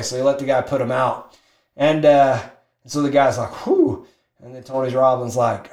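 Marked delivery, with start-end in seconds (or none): 3.6-4.1 high breathy "whew" of relief; relieved whew. Retold or imitated. Smoker let off at last, relieved whew. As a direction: blow out a relieved sigh.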